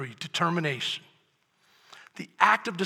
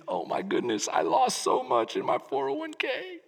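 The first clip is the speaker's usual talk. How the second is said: worried inner thought; 4 semitones higher than usual. Retold or imitated. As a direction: think it to yourself, mildly dismayed. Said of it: "and you're thinking".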